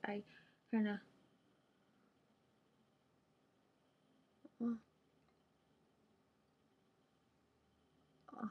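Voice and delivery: talking while stretching jaw open; words pushed out through a stretched jaw; jaw pulled open. Real, not acted. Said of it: "when I do this".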